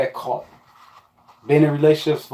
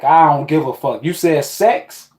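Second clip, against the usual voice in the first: higher, louder, drawn-out eager reply; eager yes; 4 semitones higher, 4 dB louder, slower than usual. Retold or imitated. He imitates his younger self jumping at sex, drawn-out and eager. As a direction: stretch it out, can't say yes fast enough.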